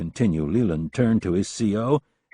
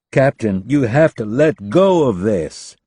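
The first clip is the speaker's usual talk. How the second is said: almost pleading; 4 semitones higher, 7 dB louder, slower than usual. A narrator's reading. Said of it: "in an almost pleading voice".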